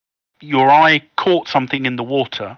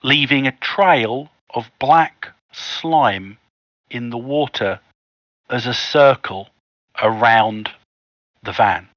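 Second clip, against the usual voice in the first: measured storytelling with pauses before key phrases; game master narration. Acted. Game master tells players how the van spins, measured suspenseful narration. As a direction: set the scene piece by piece.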